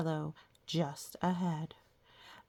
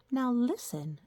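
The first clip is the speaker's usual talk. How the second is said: mother's warning; 6 semitones higher than usual. A narrator's reading. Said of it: "said their mother".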